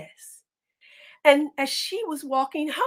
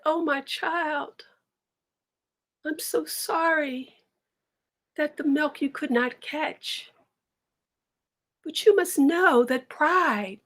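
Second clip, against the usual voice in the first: gentle comforting mother; 3 semitones higher than usual. Acted. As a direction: soothe her crying daughter slowly. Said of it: "She said".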